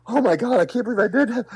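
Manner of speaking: high, breathless disbelief; gasping at what he just did; panicked gasp. Retold or imitated. Speaker hiding after the talk, gasping in panic.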